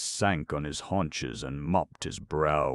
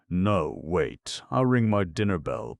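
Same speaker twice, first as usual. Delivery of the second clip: breathless, louder hurried objection; puffing; 3 semitones higher, 6 dB louder than usual. Acted. Little djinn objecting to his friends, puffing and louder. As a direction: puff out the words in a rush. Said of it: "puffed Jiniki".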